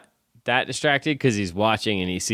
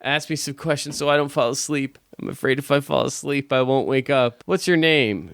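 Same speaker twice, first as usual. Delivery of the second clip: imitating him; 5 semitones higher than usual. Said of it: "he's like".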